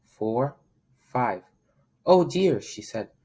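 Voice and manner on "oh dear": higher, louder dismayed cry; worried surprise. Acted. Mama Duck counting and finding one missing, dismayed. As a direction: gasp at the missing duckling.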